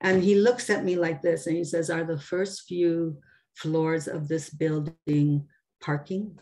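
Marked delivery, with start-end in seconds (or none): 1.9-6.4 ominous stranger. Retold or imitated. Stranger in the elevator, lightly ominous and slow. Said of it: "very ominous".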